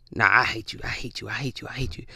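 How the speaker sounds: low, hushed repeated mutter; muttered hatred. Retold or imitated. Imitating a woman whose demon slips out, hushed mutter. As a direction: let it slip out under your breath, imitating.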